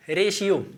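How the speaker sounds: रेशियो said ray-shiyo with sh; teaching pronunciation. Shown as a demonstration. Teacher models ratio for students.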